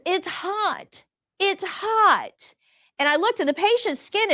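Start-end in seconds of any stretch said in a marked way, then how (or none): 0.1-2.6 high pleading voice of a patient in pain; distressed patient. Retold or imitated. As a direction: beg like a patient scalded by hot water. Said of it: "The patient says".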